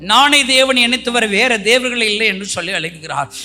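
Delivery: loud, high pleading voice of the Lord; God's lament. Acted. Jesus weeping for his people, voiced loud and high. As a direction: proclaim as the grieving God calling his people. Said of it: "என்ன தெரியுமா சொல்லி அழுகிறார்?".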